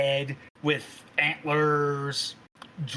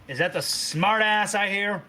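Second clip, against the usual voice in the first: lightly voiced mom calling out; a hint of a scolding mother, pitch swooping; mildly put-on bossy mom voice; brash mother. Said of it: "Your mom pokes her head in and goes".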